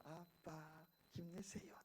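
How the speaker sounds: put-on slow, hushed child's cheer; children cheering dad on. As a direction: imitate kids softly urging dad on, drawn out. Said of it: "재환이하고 세 명이 딱 서가지고".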